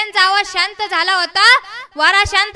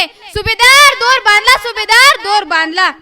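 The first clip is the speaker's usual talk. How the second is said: calling out; 2 semitones higher, 4 dB louder than usual. Acted. Climber shouts to the subhedar that the rope is tied, calling out. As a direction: call it out to someone far above or below. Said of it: "ओरडून सांगितले".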